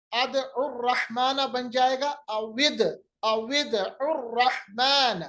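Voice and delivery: joining अदउर into उर रहमान, drawn out slowly; slow tajweed demo. Shown as a demonstration. Teacher reading the joined Arabic words slowly for students. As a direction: read अविद उर रहमान slowly, linking each sound. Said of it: "इसी तरह".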